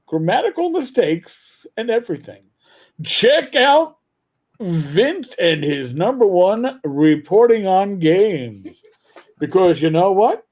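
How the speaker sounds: lightly voiced radio host plug. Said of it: "I gotta prep my radio voice".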